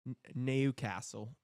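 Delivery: a first tentative stab at a Geordie accent on "Newcastle" as "Nekassel"; groping Geordie accent. Shown as a demonstration. Streamer fumbling for the Geordie accent on "Newcastle". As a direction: try the Geordie accent, unsure. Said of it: "how to say it in the accent".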